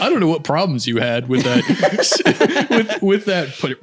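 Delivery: slow, high, breaking into laughter; teasing through real giggles; laughing tease. Real, not acted. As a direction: struggle to get it out while laughing. Cracking up while teasing friend.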